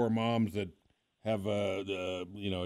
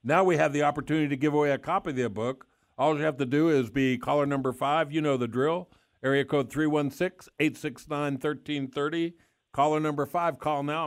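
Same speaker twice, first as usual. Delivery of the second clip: fast, punchy, louder announcer read; radio contest promo; 2 semitones higher, 3 dB louder than usual. Real, not acted. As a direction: pitch the giveaway to listeners with energy. Radio host gives away book.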